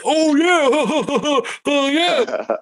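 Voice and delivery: mock agreement. Mocking reply, laughing.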